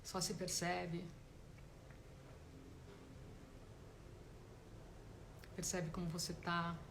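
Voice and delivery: guided meditation. Real, not acted. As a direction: gently guide them inward, leaving space between phrases. Starts guiding the meditation.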